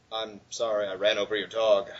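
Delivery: lightly acted low apology; mock somber. Fan quotes character's apology over a dog, mock somber. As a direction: confess it with subdued, mock gravity. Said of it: "he looks all somber".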